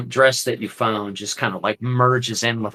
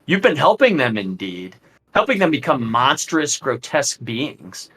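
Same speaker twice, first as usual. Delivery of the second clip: smirking; 4 semitones higher than usual. Acted. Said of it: "Strahd just smirks".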